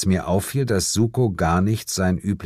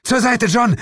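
high, urgent yell; roared warning; 4 dB louder than usual. A narrator's reading. Partner warns detective from behind, bellowing. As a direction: yell for him to clear the way. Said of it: "brüllte mein Partner hinter mir her".

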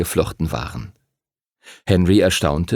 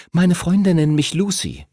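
a raised, self-assured retort; cool defiant girl; 9 semitones higher than usual. A narrator's reading. Lucy faces down Timothy, cool and defiant. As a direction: stand up to the bully nose to nose.

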